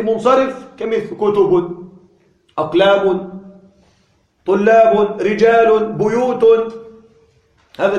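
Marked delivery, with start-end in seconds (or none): 1.2-1.9 كتب said "kutubun", ending in -un; with tanween. Shown as a demonstration. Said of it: "يعني منون". 2.6-6.7 each word from أقلام to بيوت ends in a sounded -un; with tanween. Shown as a demonstration. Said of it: "يعني منون".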